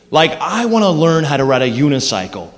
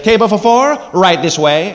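a hint of a jaunty restaurant host; mild host voice; lightly voiced host; 3 semitones higher than usual. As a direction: greet them brightly at the door. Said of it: "The guy gets the menus, and he's like".

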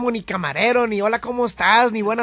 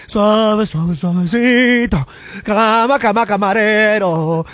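slow, stretched, silky; lightly sultry slow croon; smooth drawl; 4 dB louder, much slower than usual. Shown as a demonstration. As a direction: glide through the words slowly.

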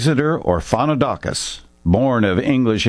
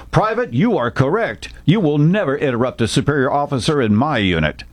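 a stern officer's rebuke; gruff; 3 semitones higher than usual. Acted. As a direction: put the private in his place. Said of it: "he said gruffly".

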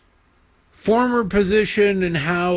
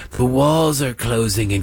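mock pundit; 3 semitones lower than usual. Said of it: "MSNBC saw ratings dips after years of going".

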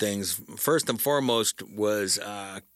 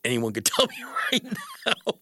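breaking into a laugh mid-sentence, quickening; laughing disbelief. Real, not acted. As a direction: laugh through the words at how dumb it is. Laughing at the dumbest comfort.

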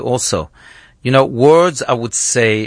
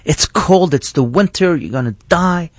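storyteller's restrained version of an upset scolding; retold scolding shout; 5 semitones higher than usual. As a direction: imitate a big sister telling off her brother. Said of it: "she started shouting at him".

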